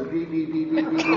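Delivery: imitated alarm buzzer. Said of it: "they hit the buzzer".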